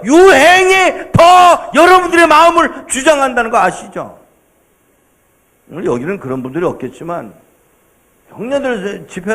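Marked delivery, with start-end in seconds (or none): 0.0-3.6 preaching shout. Real, not acted.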